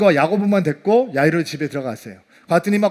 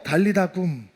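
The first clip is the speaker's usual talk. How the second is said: put-on soft, low call to a sleeping child; hushed, loving wake-up; tender call; 5 semitones lower, 6 dB quieter than usual. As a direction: gently coax the child to get up. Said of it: "죽어있는 아이를 향해서".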